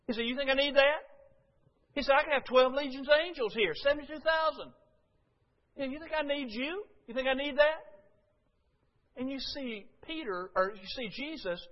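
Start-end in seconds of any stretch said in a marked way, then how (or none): 0.3-1.0 louder, higher, scornful question; indignant challenge. Retold or imitated. Jesus mocking Peter's little sword, loud scornful question. 2.1-7.8 louder, higher, scornful question; indignant challenge. Retold or imitated. Jesus mocking Peter's little sword, loud scornful question.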